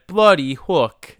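put-on awful accent, drawn out and loud; Freddie Prinze Junior. Co-host mimicking an actor's line, awful accent. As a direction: mimic his weird accent, slow and emphatic. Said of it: "that awful accent he picked".

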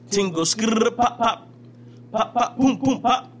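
high, slow hammed-up rapper ad-lib chant; impression of a rapper. Imitating a rapper to a friend who doesn't know him, high and slow. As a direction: belt the nonsense ad-libs like a mock grime MC. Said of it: "The dude that go".

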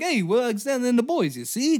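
high, fast 1940s movie villain; old-timey villain. Retold or imitated. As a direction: sneer it like a black-and-white film baddie. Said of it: "I love that voice".

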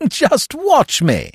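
high, slow, cocksure boast; airy self-assurance; lightly confident. A narrator's reading. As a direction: stretch it out breezily, pitched high. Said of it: "Freddy laughed a light laugh".

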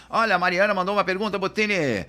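high, loud, quick call-out; mock host announcement. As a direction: imitate a host announcing a viewer's question. Mimics hosts reading out audience questions.

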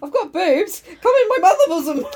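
high, laughing mock-motherly offer. Laughing as she offers her friend a mock mother's bosom. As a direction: laugh through a pretend mother's welcome.

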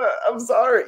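high-pitched, mock-scared apology; hammed-up nervous sorry; mock fearful apology. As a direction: play a cowed apology, voice jumping up. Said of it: "I was afraid they're gonna look at me".

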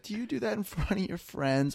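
high-pitched imitation of mom questioning her son; playful mock mom voice, high; mom laughing, scandalized. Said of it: "like, while she's laughing".

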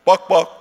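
two knocks spoken as "Buck, buck"; voicing a door knock, Liberian style. Shown as a demonstration. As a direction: tap out the Liberian knock with your voice. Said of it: "this is how our knock sounds".

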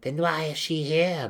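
high, loud, angry demand; explosive cry. A narrator's reading. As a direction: cry out, edged with violence. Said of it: "Malice cried, her tone edged in explosive violence".

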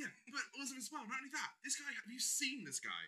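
high-pitched, laughing incredulity; can barely get it out for laughing; amused, laughing. Real, not acted. Cracking up at own idea.

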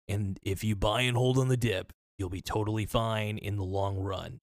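losing voice, a bit hoarse. Real, not acted. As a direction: talk with a worn-out, hoarse voice. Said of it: "I'm losing my voice a little bit".

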